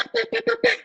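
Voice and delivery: high knocking sounds pá pá; imitated banging on a door; mock knocking. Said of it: "escuto pá".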